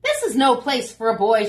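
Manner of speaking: shouting woman. Acted. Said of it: "shouted the woman".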